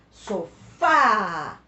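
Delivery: Sofá with a short So and a long, loud fá; Sofá split in two, leaning hard on fá; stressed last syllable. Shown as a demonstration. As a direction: stretch and punch the final á of Sofá. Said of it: "última sílaba mais forte".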